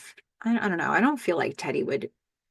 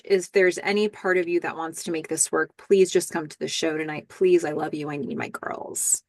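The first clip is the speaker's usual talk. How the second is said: choked, tearful pleading, fading to a breath; near tears; 3 dB quieter than usual. Retold or imitated. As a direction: plead while holding back tears. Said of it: "he's near tears".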